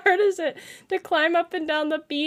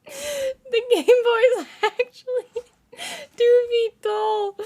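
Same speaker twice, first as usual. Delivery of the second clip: laughing; 5 semitones higher than usual. Real, not acted. Streamer laughing at chat joke.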